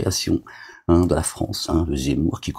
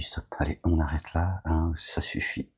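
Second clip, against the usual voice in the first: voix de Dieu; 6 dB quieter than usual. Retold or imitated. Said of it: "Dieu dit".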